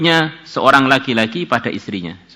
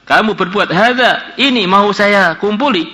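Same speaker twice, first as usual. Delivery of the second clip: higher, slow, shaken man; Kifl's voice; 8 semitones higher, 4 dB louder, slower than usual. Acted. Kifl, shaken, repeats what he nearly did, slow and higher. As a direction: say it slowly, struck by shame.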